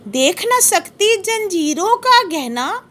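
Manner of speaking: slow, measured reading of verse; poem recitation. Shown as a demonstration. Teacher reciting the poem to the class, slow and measured. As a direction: savour each word like a recital. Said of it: "कवि कह रहा है इस paragraph में".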